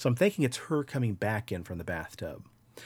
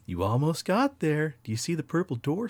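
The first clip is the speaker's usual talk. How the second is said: eerie taunting voices; 6 semitones higher than usual. Retold or imitated. Imagined voices egging on the dreamer, eerie high coaxing. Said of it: "I heard voices saying".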